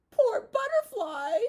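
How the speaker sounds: high, loud, slow pity; hammed-up pity; mock sad lamb. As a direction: sigh it like a sad little lamb. Lamb mourning.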